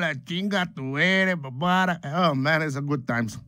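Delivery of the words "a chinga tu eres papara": imitating dad cussing. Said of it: "he's immediatamente en Espanol".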